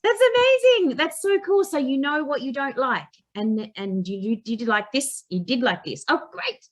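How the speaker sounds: excited cheer. Retold or imitated. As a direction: cheer them on with over-the-top joy. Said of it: "And I'll be like".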